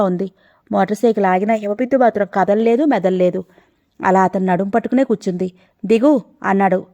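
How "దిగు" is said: a curt, grave order to get off; grave command. Acted. Man ordering the girl off his motorcycle, grave and curt. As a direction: tell her to get down, stern and heavy. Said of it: "అతని గొంతుక గంభీరంగా ఉంది".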